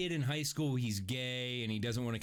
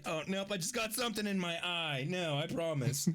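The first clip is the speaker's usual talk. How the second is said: raised, half-whimpered excuse; mock tearful denial; 5 semitones higher than usual. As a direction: cover up tears, hammed up. Acted excuse for crying in theater.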